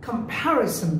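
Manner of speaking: Comparison said as kuhm-PA-ri-sun; correct pronunciation. Shown as a demonstration. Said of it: "এটা ভুল, it's". (Comparison-এ জোর প্যা-তে, স উচ্চারণ)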